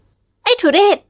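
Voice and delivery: high, very slow spat-out insult; disgusted woman. A narrator's reading. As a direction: throw the word at him in disgust.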